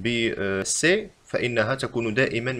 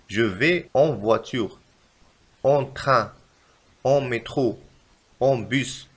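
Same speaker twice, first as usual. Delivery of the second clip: slow model sentence; much slower than usual. Shown as a demonstration. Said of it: "مثلًا نقول".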